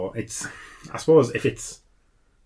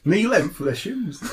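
put-on laughing Geordie accent, slow; 11 semitones higher than usual. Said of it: "in a Geordie accent".

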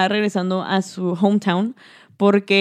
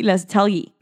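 talgui with a gringo accent, English r and vowels; American accent Spanish; slower than usual. Shown as a demonstration. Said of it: "lo hice con acento gringo".

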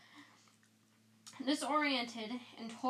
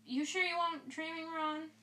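mild doubt; 6 semitones higher than usual. Acted. Dean doubting Ron.

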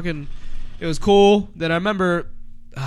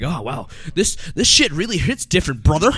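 mock stoner voice; 4 semitones higher than usual. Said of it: "Yeah, like".

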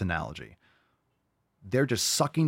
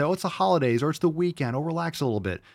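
higher-pitched mimicry of persuaders; mock coaxing; 7 semitones higher, faster than usual. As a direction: lightly mimic people waving away the rules. Mimics what people say.

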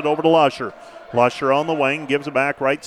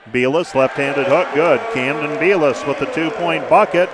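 excited call. Real, not acted. Made basket call.

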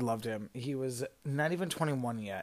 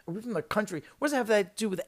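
baffled; 6 semitones higher, 4 dB louder than usual. Retold or imitated. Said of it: "looked at each other like".

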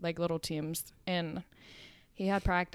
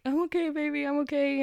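lightly acted high baby-talk comfort; reassuring a child; 8 semitones higher than usual. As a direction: pitch it up to soothe a little one. Reassuring the worried niece.

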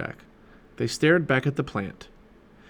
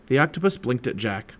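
plain reading voice

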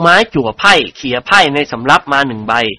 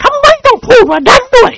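shouting; 4 dB louder than usual. A narrator's reading. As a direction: yell it across the table. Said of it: "ตะโกนลั่น". (ตะโกนเสียงสูง)

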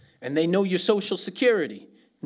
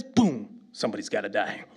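lower, dropping into a playful threat; mock menace; 6 semitones lower than usual. Shown as a demonstration. Showing the angry mode, lower and mock menacing. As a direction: switch to a lightly voiced menacing growl. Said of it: "two modes for a Spanish person".

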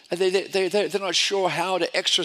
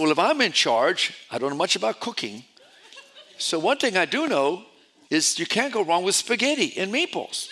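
laughing. Retold or imitated. Laughing retelling his thinking.

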